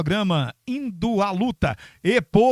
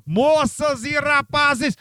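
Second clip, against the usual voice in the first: slow, higher, drawn-out MC call; grand entrance announcement; 8 semitones higher, 3 dB louder, slower than usual. Acted. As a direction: stretch it like a ringmaster. Presenting the guest.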